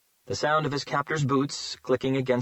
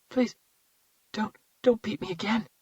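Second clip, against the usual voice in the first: high, trembling plea not to be hurt; terrified pleading; 11 semitones higher than usual. Acted. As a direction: beg in panic like a frightened child. Terrified boy begging his captor.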